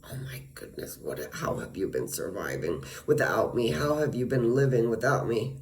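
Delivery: whispered sigh, then a patronizing voice; condescending mock. Neighbor patronizing her, mock condescending whisper. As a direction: sigh down at them like they're hopeless. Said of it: "she would be like".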